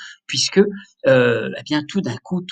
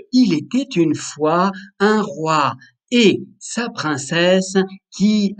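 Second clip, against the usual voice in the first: stilted classroom reading; 3 semitones higher, much slower than usual. Shown as a demonstration. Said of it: "vraiment d'un ton".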